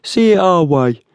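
very high, insistent urging; pushy tough leaning on the victim. A narrator's reading. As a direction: press hard as the tall man, pitched well up. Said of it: "urged the tall man".

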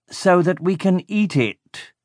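slow gloating villain line; villain Baron Marakai. A narrator's reading. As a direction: relish the answer, slowly. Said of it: "he said".

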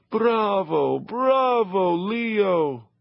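cheering crowd. Acted. Imagined audience cheering Leo on the stairs, high and excited. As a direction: call out bravo like an adoring crowd.

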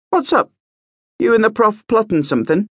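put-on brisk, bright young man; lively young prince. A narrator's reading. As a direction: play the eager young prince. Marcus voiced.

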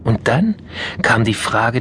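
ordinary delivery

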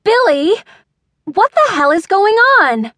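high-pitched exasperated yell; shouted, impatient demand; yelling through a door. A narrator's reading. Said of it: "Mona yelled again".

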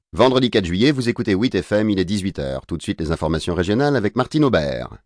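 lively station ident; radio announcer. Acted. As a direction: announce the hour like a radio host. Bulletin radio dans le récit. (annonce radio enjouée)

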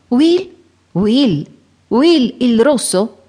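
high startled "Will?", then slow and disbelieving; surprised cry. A narrator's reading. Robin to the stranger, a high surprised cry. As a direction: Robin recognising his old friend, crying out in surprise. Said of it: "Robin gettò un grido".

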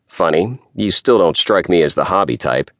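nasal voice. Acted. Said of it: "Isher's nasal voice".

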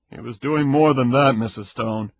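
stern investigator. Acted. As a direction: state it flatly like a cop.

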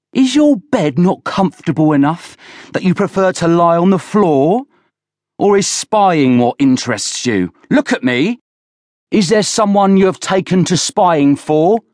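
high, loud, interrogating roar. A narrator's reading. Villiers accuses Oland of spying, roaring at him. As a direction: bellow accusing questions at the boy. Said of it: "roared Villiers".

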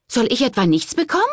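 high, fast, loud outburst; snapping angrily. A narrator's reading. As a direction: bite his head off. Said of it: "fuhr Genoveva ihn an".

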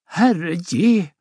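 put-on a touch of dizzy alarm from the old mother; mildly giddy cry. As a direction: gasp it out as if the ground sways. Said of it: "Åse vimmelkantig".

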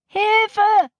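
high, sustained alarmed call; cry for help. A narrator's reading. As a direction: call for help, pitch right up. Child cries for help. (hoher Hilferuf)

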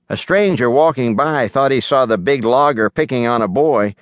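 ordinary delivery, nothing marked

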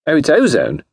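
high-pitched silly socialite; high, airy enthusiasm; gushing lady. A narrator's reading. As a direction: gush in a high ladylike voice. Alice gushing along with Clara.

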